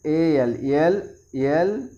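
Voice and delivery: letters spelled out very slowly; slow spelling. Shown as a demonstration. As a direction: drag each letter for the class. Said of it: "इसका उच्चारण क्या हो जाएगा?".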